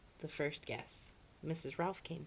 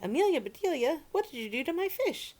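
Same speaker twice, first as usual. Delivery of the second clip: angry; 11 semitones higher, 6 dB louder than usual. A narrator's reading. Host angry about his fish.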